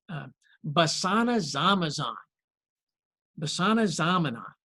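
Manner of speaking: basana zamanon read haltingly, a syllable at a time; Greek word read out. Shown as a demonstration. Pastor reading the Greek word to the congregation, haltingly. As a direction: sound out basana zamanon carefully. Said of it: "the Greek word for battered by the wind is".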